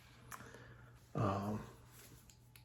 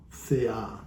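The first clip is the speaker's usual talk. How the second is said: Thea stressed on its final A; stress on last syllable. Shown as a demonstration. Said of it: "so the accent is on the A".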